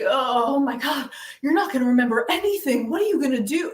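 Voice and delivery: lightly imitated worried fuss; mock alarm. People hearing about someone's shock therapy, mildly mocked alarm. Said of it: "Everybody always gets weird".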